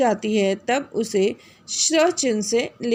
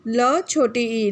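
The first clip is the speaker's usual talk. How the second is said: slow spelling; much slower than usual. Shown as a demonstration. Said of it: "वर्ण विच्छेद करके दिखाना होगा".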